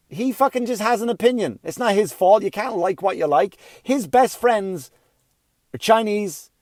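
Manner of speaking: high, worked-up protest, pitched well up; heated rant. Retold or imitated. Arguing with the son's mother, worked up and high. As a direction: vent the outrage at her.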